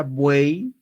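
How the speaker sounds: buey with final Y as a clear "ee"; pronunciation demo. Shown as a demonstration. Teacher asking learners to pronounce it, clear final I in buey. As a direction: stretch buey, rising on the final I sound. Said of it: "a ver, pronuncia en tu casa".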